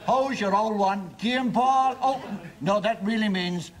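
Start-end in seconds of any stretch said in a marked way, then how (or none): 0.1-2.0 put-on slow, wry Cork accent. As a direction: say it sideways, with a Cork accent's irony. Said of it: "spoken out of the corner of the mouth".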